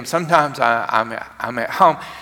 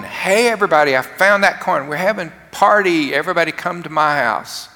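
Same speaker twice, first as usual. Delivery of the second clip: higher-pitched, acted party invitation; excited calling out; 4 semitones higher than usual. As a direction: call the neighbors over, acting delighted. Woman calls everybody to party.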